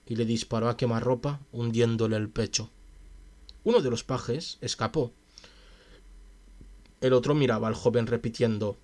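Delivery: measured, even audiobook reading; story narration. A narrator's reading. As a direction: read the tale aloud steadily. Reads a story aloud. (narración de cuento)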